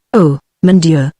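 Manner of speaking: slow, mild moan in French; a slow, understated moan of despair. Acted.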